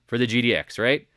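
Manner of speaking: pumped self-quote; emphatic quote. Retold or imitated. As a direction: hit it hard like you told them. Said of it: "I said".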